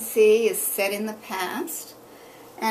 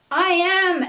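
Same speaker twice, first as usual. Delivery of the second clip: high, loud proud reply; loud booming answer; 10 semitones higher, 9 dB louder than usual. A narrator's reading. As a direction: boom it back to the mate. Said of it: "answered Emily".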